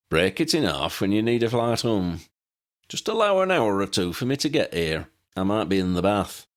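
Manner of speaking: lightly voiced eccentric old man, fond and wry; old pilot Pelicus. Old pilot showing guests his plane, lightly voiced old man.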